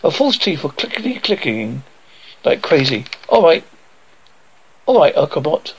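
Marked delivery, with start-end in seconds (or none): 3.3-5.7 raised voice to a robot; shouting. Acted. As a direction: call out over the noise. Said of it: "shouted Alfred".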